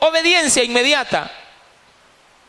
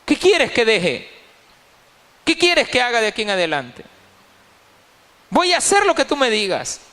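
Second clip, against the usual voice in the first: entrega humilde. Retold or imitated. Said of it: "se atreven a decirle al Señor".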